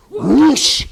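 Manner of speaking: high, loud whoosh yelled out. Shown as a demonstration. Coach yelling the whoosh with the audience, loud and high. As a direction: let the whoosh burst out. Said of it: "and you yell whoosh".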